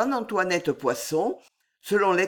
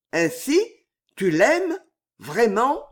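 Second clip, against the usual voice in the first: higher, pleading father asking; anxious father's question; 6 semitones higher, 4 dB louder than usual. Acted. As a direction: press her gently, hoping to believe. (père inquiet qui interroge)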